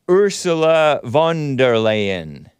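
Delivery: Ursula von der Leyen sounded out slowly, each part drawn out; careful pronunciation. Shown as a demonstration. Host carefully sounding out a politician's name, slow. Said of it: "L E Y E N".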